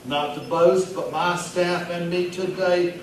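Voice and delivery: chatty pet-store manager at a bar; Vernon Ricketts. Acted. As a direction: play a festive mall regular chatting up a stranger. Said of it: "read it in the voice of the character".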